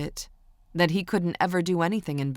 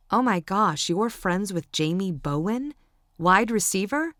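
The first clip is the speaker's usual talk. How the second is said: excited; 2 semitones higher than usual. Acted. Fan learns of famous friend.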